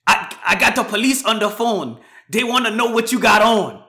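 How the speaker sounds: mock the nosy caller; imitating the Asian lady. Lady relaying police questions, mimicked high. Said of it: "this Asian lady walks up to the dude and goes".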